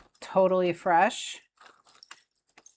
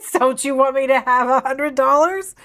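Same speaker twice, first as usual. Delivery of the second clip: pet voice; 6 semitones higher, 11 dB louder than usual. Pretend. Begging on behalf of her pet.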